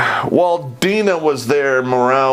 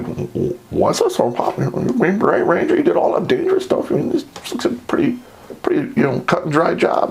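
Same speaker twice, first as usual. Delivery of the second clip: put-on higher, faster eager kid voice; young soldier voice; 5 semitones higher than usual. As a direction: play a naive eager recruit. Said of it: "And he's just like".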